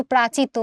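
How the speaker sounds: প্রাচিত as "prachito", middle sounds dropped; the mistaken প্রাচিত, without "yosh" or double "t"; wrong reduced form. Shown as a demonstration. Teacher showing a common error, প্রাচিত cut to three syllables. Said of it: "প্রাশ্চিত্ত বলি না".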